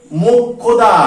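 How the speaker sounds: মোক্ষদা said firmly as mok-khoda; example pronunciation. Shown as a demonstration. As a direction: hold the doubled k-kh in মোক্ষদা. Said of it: "উদাহরণ লিখেছি আমি".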